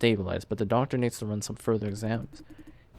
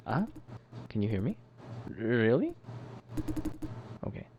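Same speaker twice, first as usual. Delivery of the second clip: softer, checking the volume; lowered voice; 7 dB quieter than usual. Acted. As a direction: bring it down, a bit quieter. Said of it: "I'll lower my voice".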